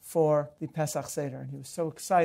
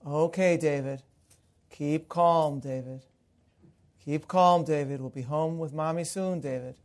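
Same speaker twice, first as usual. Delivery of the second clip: soothing voice. Retold or imitated. Father calming his screaming son in the supermarket, soothing. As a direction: coax him gently, over and over. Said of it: "in a soothing voice".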